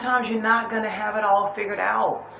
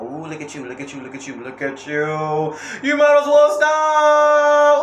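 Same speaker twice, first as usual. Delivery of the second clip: taunting devil; 3 semitones higher, 3 dB louder than usual. Retold or imitated. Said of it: "The devil go".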